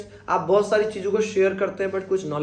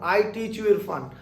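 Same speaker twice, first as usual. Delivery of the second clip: slow model sentence; slower than usual. Shown as a demonstration. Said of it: "मैंने बोला कि".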